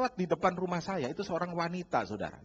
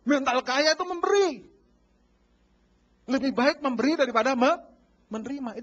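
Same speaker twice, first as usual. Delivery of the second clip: louder, higher proclamation; preaching climax; 4 semitones higher, 9 dB louder than usual. Acted. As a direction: proclaim it to the whole church.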